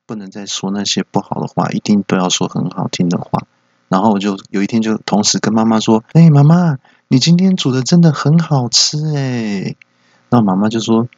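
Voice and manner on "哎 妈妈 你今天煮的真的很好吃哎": eager praise. Retold or imitated. Son and dad praise together.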